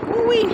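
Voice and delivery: high-pitched "woo-wee"; high whoop. Real, not acted. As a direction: let out a high little whoop. Reacting to a big bug.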